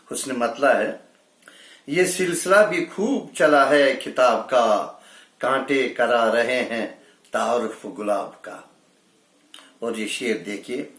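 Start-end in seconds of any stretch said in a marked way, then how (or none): 1.9-8.6 measured Urdu verse delivery; mushaira-style recital; poetry recitation. Acted. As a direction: recite it as a ghazal line. Recites a ghazal couplet.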